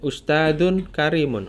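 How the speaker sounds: "ustadun" lifted, "karimun" falling at the end; model intonation. Shown as a demonstration. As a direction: demonstrate the tune of "ustadun karimun", rising then falling. (contoh intonasi "ustadun karimun", naik lalu turun di akhir)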